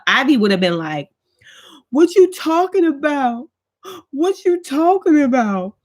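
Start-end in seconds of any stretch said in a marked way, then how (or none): 1.9-5.7 put-on high, indignant teen protest; imitating Ivy. Imitating daughter Ivy's outraged protest, pitched high.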